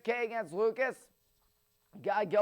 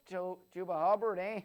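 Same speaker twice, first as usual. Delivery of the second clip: bad Canadian accent; 2 semitones lower than usual. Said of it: "Horrible Canadian impression".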